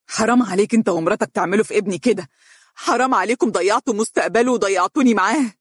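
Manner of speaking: sharp angry outburst. Acted. Grieving father accusing the lawyer, sharp angry shout. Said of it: "وهتف فيه بحدة".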